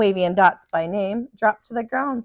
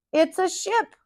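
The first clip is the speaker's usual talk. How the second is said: excited shout; 8 semitones higher, slower than usual. A narrator's reading. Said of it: "Wavy shouted".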